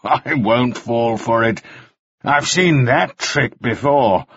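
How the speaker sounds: slow, with a short laugh; drawn out, sure of himself; knowing scorn. Acted. Mannering refusing the trick, slow and smug.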